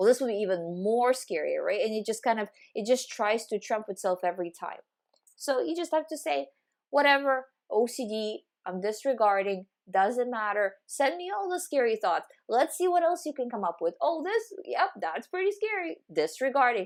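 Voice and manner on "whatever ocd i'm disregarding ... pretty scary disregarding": sing-song, very sarcastic, dismissive brush-off. Showing how to answer OCD's scary thoughts, very sarcastic, like not caring. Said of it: "very sarcastically, like you don't care".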